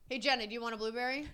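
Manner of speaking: soft, fast, absent-minded question; distracted mumble. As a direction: mumble it at a computer screen. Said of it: "You're like this on your computer".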